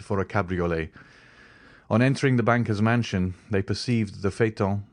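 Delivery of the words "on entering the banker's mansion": usual speaking voice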